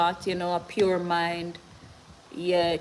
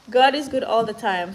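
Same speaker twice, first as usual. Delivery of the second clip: louder, laughing, higher joyful repeat; 4 semitones higher, 5 dB louder than usual. Real, not acted. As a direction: laugh it out with joy.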